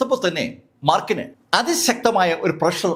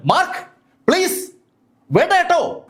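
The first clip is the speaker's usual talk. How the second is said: higher, begging call from below; pleading call; 12 semitones higher than usual. A narrator's reading. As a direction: plead with him to stop. Prisoner pleading from the vault. (ഉയർന്ന സ്വരത്തിൽ കെഞ്ചുന്ന വിളി)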